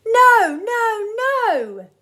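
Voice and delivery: high, loud cry of no; the mayor shrieks in horror from his palace; hammed-up outraged shout. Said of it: "looked down and shouted".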